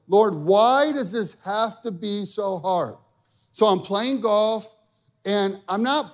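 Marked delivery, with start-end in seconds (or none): 0.1-3.0 exasperated complaint to the Lord, leaning on "why"; retold prayer of mild exasperation; frustrated plea. Tired golfer in dialogue with the Lord, frustrated. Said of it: "This is my dialogue with the Lord".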